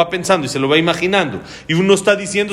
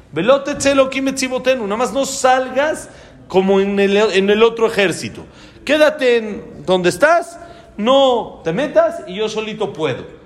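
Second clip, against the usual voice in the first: cocky, raised pitch; boastful; 6 semitones higher than usual. Retold or imitated. General tells God he can manage alone, cocky. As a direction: brag that you need no help.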